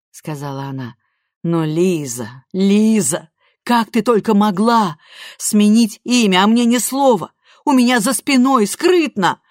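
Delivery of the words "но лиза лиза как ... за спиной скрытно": growing louder, a wounded mother; mother reproaching her daughter for hiding it, building; hurt reproach. A narrator's reading. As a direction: let the hurt build to the end.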